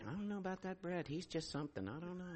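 hushed, quick aside; muttering deacons. Retold or imitated. Deacons doubting Brett behind his back, imitated hushed mutter. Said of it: "they're all gonna be like".

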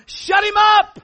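high, loud shouted command. Acted. Pastor telling congregation to silence the giant, commanding shout. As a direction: roar it at the giant.

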